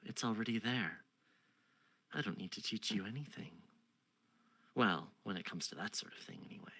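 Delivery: soft, teasing queen trailing to a whisper; a hint of a coy queen; lightly voiced queen. Queen brushing off the seeker, soft and teasing.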